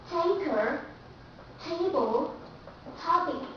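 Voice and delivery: tanker, table, topic with a hard puffed T; tanker, table, topic, each T aspirated; aspirated true T. Shown as a demonstration. Teacher demonstrating true T to students. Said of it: "For example".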